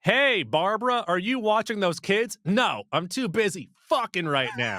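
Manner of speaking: hammy bit of scripted phone chat; mock phone call. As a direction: act out a made-up show dialogue on the phone. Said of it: "holding a phone up to my ear to describe what was".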